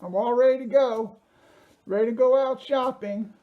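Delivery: through a face mask. Real, not acted. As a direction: push the words out behind a mask. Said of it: "I'm losing my breath here 'cause I can barely breathe in this thing".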